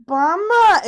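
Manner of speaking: high, loud mock wail for help; child's alarmed cry. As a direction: imitate a kid calling out for rescue. Child crying out to grandma for rescue.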